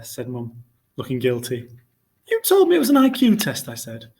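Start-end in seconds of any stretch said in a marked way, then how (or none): 2.3-3.7 accusing. A narrator's reading. Boy accusing mother.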